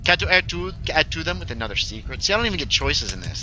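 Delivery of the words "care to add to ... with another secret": put-on game character voice.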